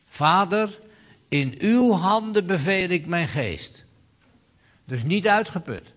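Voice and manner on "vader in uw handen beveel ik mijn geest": loud and high, calling out to the Father; loud cry. Acted. Preacher voicing Jesus calling loudly to the Father. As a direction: cry it out with full strength, not exhausted. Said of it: "riep met luider stem".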